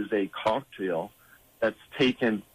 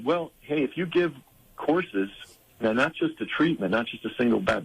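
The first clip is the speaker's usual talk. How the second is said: mock-generous, sarcastic and raised; 3 semitones higher than usual. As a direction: voice the government's offer with sarcasm. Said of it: "and I'm being sarcastic".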